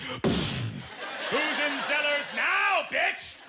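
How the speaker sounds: loud, high, stretched taunt; hammed-up gloating yell; mock triumphant shout. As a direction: crow it in victory.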